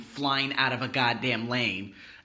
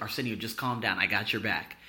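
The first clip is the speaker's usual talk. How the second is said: calming; 5 semitones lower, 6 dB quieter than usual. Retold or imitated. Neighbor reassures the worried teller.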